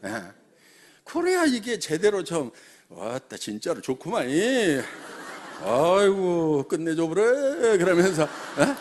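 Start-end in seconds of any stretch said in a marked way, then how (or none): 2.9-7.8 Jeolla dialect. Retold or imitated. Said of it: "거기 막 전라도 말, 경상도 말 막, 막 섞여 있거든요".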